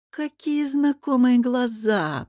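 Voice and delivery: put-on high, slow cooing over the baby. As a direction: coo it sweetly and slowly. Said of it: "проворковала королева Летис". (воркующе, медленно и высоко)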